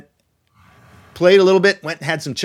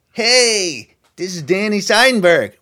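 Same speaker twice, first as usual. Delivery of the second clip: a hint of a New York accent, a touch higher; Danny Seidenberg's New York voice; 5 semitones higher, slower than usual. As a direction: lightly voice an eager New York caller. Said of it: "I sound like I was still really a New Yorker".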